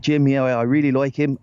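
a hint of Southern Irish; Southern Irish accent. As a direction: lightly imitate an Irish football manager. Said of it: "That was, that was Southern Ireland".

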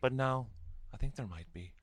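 put-on light Scottish accent, quick. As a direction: imitate a Scottish vocal coach. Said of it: "he said in his Scottish accent".

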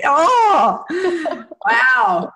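put-on loud, laughing groan of a fed-up boy; mock teen groan. Mother voicing her son's mock complaint about puberty, loud and laughing. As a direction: ham up a weary preteen. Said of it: "Noah's like".

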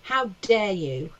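slow, weighted indignation; understated anger. Retold or imitated. Comic recalling how fear became anger, restrained indignation. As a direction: draw out each "how dare" without shouting. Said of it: "turned it into anger".

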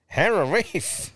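slow, high mock masseuse; mimicked masseuse. Host mimicking the masseuse's phrase, slow high voice. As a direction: draw it out high, rising.

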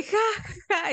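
brief pretend cackle; imitated guffaw. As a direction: act out waking up on a "ha, ha". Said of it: "me despierto con mi propia carcajada".

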